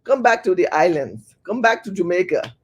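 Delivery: imitation Jamaican accent slipping into African; botched Jamaican accent. Host acting an islander calling people home, botched Jamaican-African accent. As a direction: try a Jamaican accent and muddle it with an African one. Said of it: "I kinda mixed that one up with my African accent".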